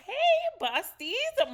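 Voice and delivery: big high loud hello to the fans; hyped podcast host greeting; excited greeting. Real, not acted. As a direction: throw the welcome out loud. Host's loud show greeting.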